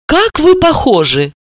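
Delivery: exclaiming. Acted. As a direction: marvel at the likeness. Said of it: "воскликнула".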